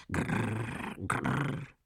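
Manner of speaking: short rolled pigeon coos; two trilled grrr coos; pigeon cooing. A narrator's reading. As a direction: imitate a pigeon's rolling coo. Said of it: "zagruchały tymczasem gołębie".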